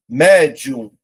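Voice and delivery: word drawn out slowly, syllable by syllable; slow dictation. Shown as a demonstration. Teacher slowly reading out a quiz word. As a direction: spell it out slowly for the class. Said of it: "A separação é assim".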